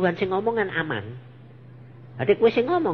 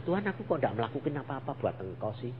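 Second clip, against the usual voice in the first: retold prayer; 4 semitones lower, 10 dB quieter, faster than usual. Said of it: "Aku bilang".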